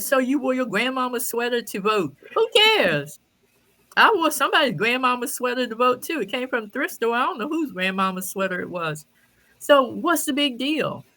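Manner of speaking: scornful rant at the crying woman's sweater story; indignant rant. Real, not acted. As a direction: tear her story apart with scorn. Ranting at the clip.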